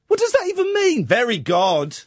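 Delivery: incredulous mockery. Real, not acted. Mocking the lyric.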